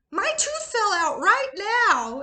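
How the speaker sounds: put-on high, slow little kid voice; squeaky small child. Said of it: "and she's like".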